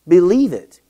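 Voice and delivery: loud, ringing call of Believe it; Believe it, shouted from the pulpit; preaching shout. Real, not acted. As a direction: proclaim it to the whole room. Preacher repeats exhortation louder.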